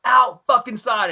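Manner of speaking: high, drawn-out imitated bellow; slow, high-pitched mock command; acted angry senior. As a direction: call out two culprits like a drill instructor. Senior orders recruits outside, retold.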